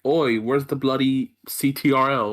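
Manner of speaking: slow, hammed-up British accent, lightly done; a teasing cockney "oi" in a British accent; mock British accent. Teasing Hugo about PC controls in a mock British accent. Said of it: "exaggerated British accent".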